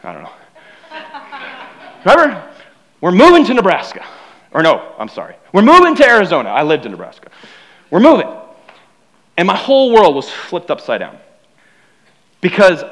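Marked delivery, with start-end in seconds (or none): 2.0-8.3 louder announcement from the parents; parents announcing the move. Retold or imitated. Parents telling their son about the move, louder announcement. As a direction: break the news loudly. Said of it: "my mom and dad came to me and they said".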